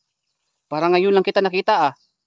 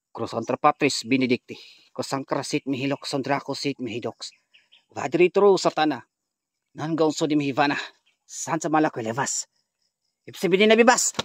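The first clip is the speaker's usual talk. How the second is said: exorcism incantation; 2 semitones lower than usual. Real, not acted. Recites the oration again.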